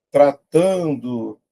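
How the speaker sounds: "Tratando" slowed, TAN stretched; syllable by syllable. Shown as a demonstration. Teacher sounding out an option, syllable by syllable. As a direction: draw out "Tratando", leaning on TAN. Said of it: "Vou separar".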